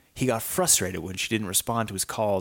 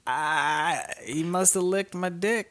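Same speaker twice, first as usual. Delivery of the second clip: mocking excuse voice; 9 semitones higher, slower than usual. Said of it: "'Cause you can't be like".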